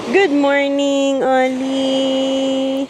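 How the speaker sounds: slow, cooing good morning. Real, not acted. Mother greeting baby.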